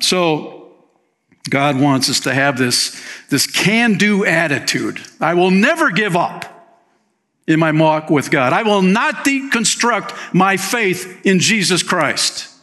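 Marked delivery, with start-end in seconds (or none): 5.2-12.5 determined vow. Acted. Voicing a believer's vow.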